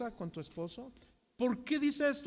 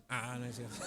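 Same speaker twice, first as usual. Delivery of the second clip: lower, laughing admission of a joke; 7 semitones lower, 4 dB quieter, faster than usual. Real, not acted. Preacher confessing his joke to the church, laughing. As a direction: laugh as you take back the joke.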